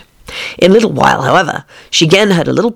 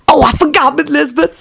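maid voice; 8 semitones higher than usual. Acted. Voices Lucretia.

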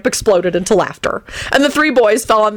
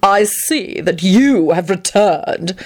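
very slow, sulky greeting; much slower than usual. Acted. Antonin glares at Lupin, slow and sulky. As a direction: drag it out with mild sulking resentment. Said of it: "he sulked as he glared".

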